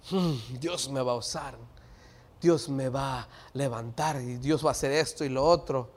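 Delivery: low, soft acted self-talk; private musing. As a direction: say it softly to yourself. Acts someone privately pleased with promise. (pensando en voz baja, para sí)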